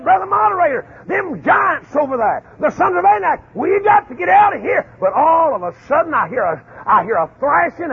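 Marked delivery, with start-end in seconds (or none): 0.0-4.8 higher, rising to a shout; a frightened spy begging to retreat; mock scared spy. A spy warning the moderator about giants, in mock panic. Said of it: "he said".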